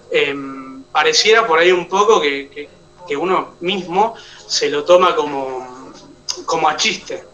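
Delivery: ordinary delivery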